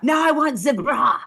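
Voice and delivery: imperious hammed-up Italian order; screaming designer demand. Designer demands the next garment from host, shouting imperiously. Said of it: "Gabbana starts screaming at me".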